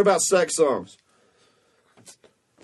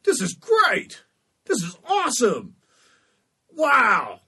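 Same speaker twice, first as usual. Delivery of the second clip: much higher, slow, delighted cartoon gasping; high hammed-up cartoon delight; imitating Peter Griffin; 8 semitones higher, much slower than usual. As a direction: gush like a cartoon dad getting a lap dance. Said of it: "and he's like".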